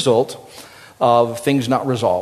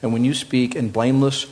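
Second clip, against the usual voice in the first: scripture reading. Acted. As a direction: read it as a heartfelt prayer. Reads Psalm fifty-one aloud.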